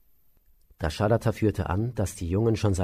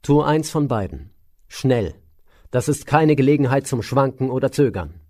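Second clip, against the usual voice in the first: sharp voice; 2 semitones higher, 5 dB louder than usual. Acted. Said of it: "Schärfe in der Stimme des Weisen".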